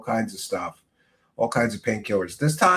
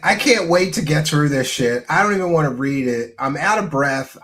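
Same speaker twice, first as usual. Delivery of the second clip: half-hearted ad read; mock fed-up reader; mocking bored ad reader; 3 semitones higher, 4 dB louder than usual. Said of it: "he sounds like he's literally wheezing".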